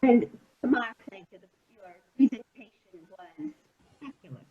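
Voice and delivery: audio cutting out. Real, not acted. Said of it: "Sorry, I can't really hear you".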